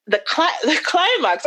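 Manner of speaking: whispered with a small laugh. Real, not acted. Forgetting an English word, a laughing whisper.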